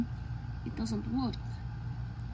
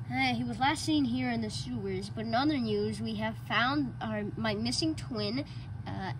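news presenter; 3 semitones lower, 18 dB quieter than usual. Acted.

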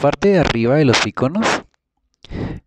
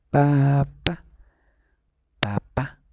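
put-on coaxing a child; 5 semitones higher, much slower than usual.

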